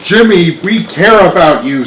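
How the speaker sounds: mean every word; sincere. Acted. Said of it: "said Eddie sincerely".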